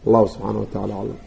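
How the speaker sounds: very soft, low and rapid; murmured closing formula. Real, not acted. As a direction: rattle off the closing blessing under your breath. Lesson's closing religious formula. (duco gabagabo ah, cod hoose oo degdeg ah)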